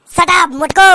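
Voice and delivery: angry retort. Acted. Bahu snaps at mother-in-law.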